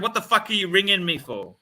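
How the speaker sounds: indignant question in one run; retold indignant demand. Retelling his retort to the calling salesman, indignant and unbroken. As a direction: fire off the challenge without pauses.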